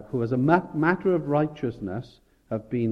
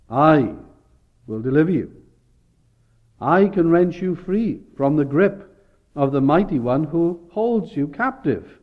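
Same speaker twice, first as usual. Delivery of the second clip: louder, proclaiming with a firm I; emphatic declaration; 3 semitones higher, 4 dB louder than usual. Acted. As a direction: declare the deliverance like the Lord speaking. God's promise declared by preacher.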